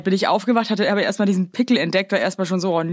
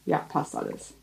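whispered aside; 4 semitones lower, 12 dB quieter than usual. Real, not acted. Quiet aside while checking setup.

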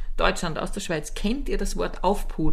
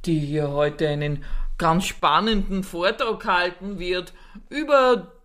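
mock formal announcer; 3 semitones lower than usual. Mock conference host speech.

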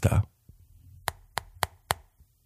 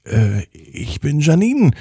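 surprised; 4 semitones higher than usual. Acted. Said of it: "sagte Janine etwas überrascht".

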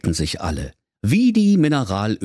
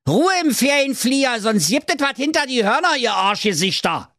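mother goat voice. Acted.

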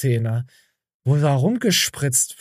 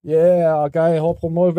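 high, slow salesman pitch; mock ad pitch; 3 semitones higher, slower than usual. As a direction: sell it like a cheesy ad.

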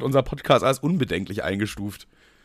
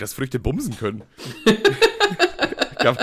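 lachend. Real, not acted. Laughing at own joke.

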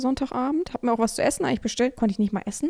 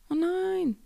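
surprised; 8 semitones higher than usual. Real, not acted. Realizes count is wrong.

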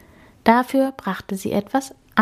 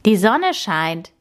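slow proclamation; measured, mild proclamation; announcing; 2 semitones higher, slower than usual. A narrator's reading. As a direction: announce it slowly, as big news. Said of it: "verkündete er".

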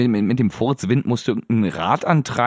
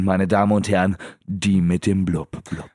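show host announcement; 5 semitones lower than usual. Pretend. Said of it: "ich bin die Leiterin dieser Show".

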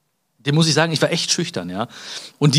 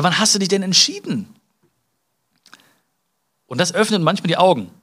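ordinary delivery

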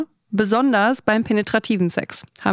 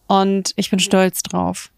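ad read. Acted. Sponsored ad read.

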